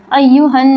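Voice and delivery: अय्युहन with the nn held and hummed through the nose; ghunna on the noon. Shown as a demonstration. Teacher showing students the nasal ghunna, nasal hum. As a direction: let the doubled noon in अय्युहन ring nasally. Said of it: "आवाज़ नाक में जाएगी".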